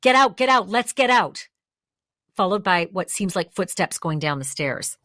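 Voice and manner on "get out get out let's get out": retold yell. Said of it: "that male voice saying".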